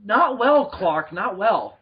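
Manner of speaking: acted indignant Lois. Lois answers Superman's awkward proposal.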